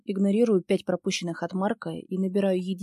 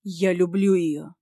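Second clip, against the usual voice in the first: сдержанный гнев; 6 dB louder, slower than usual. Acted. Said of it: "Гнев пылает в его глазах".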